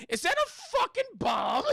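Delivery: high, loud startled shout; mock cop shout. Cop on the boat shouts at the bomb, high and loud. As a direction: yell it like a cop spotting a bomb.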